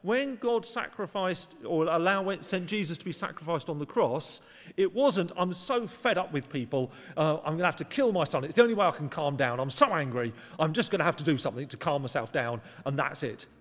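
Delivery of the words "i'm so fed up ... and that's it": mock angry God. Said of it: "this image of God being so angry".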